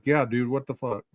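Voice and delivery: soft, lightly voiced bewildered friend; a hint of casual confusion; mock confused friend. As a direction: sound like she is lost. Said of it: "that just sounds like".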